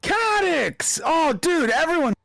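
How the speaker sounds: high excited yell; excited shout. Real, not acted. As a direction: shout it out with joy. Excited streamer shouts name.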